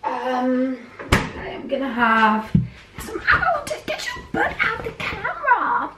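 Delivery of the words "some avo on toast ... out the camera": laughing. Real, not acted. Cat gets in the way.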